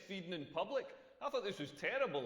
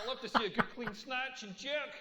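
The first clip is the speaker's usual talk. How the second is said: "snatch and jerk" said through a laugh; 4 semitones higher than usual. Shown as a demonstration. Comic redoes the snatch joke to the crowd, laughing. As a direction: crack up while landing the punchline. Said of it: "I mean".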